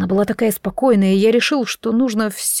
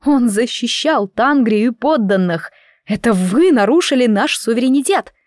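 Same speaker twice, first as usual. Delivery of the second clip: indignant protest; 3 semitones higher than usual. Acted. Heroine protests the unjust peace.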